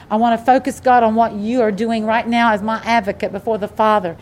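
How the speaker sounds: low-pitched, steady prayer of thanks; heartfelt closing prayer; earnest prayer. Real, not acted. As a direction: address God directly in a running prayer.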